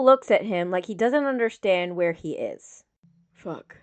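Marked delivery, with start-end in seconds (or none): 3.3-3.8 very soft, low breath of a curse; a stunned, hushed curse; softly. A narrator's reading. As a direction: let it slip out under your breath. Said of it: "he says softly".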